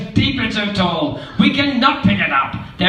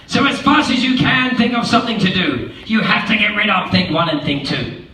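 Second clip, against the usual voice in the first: panicked fish; 6 semitones higher than usual. Acted. Fish warning the kids mother is near, panicked. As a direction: rush the alarm, voice up high. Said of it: "said the fish".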